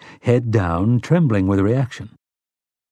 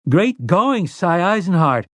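put-on high-pitched boyish cheer; high, excited shout of congratulations; calling out; 6 semitones higher, slower than usual. A narrator's reading. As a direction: call out praise, pitched well up. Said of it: "Jake called".

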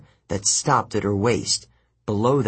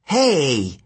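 protesting; 4 semitones higher, 4 dB louder than usual. Acted. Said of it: "she protested".

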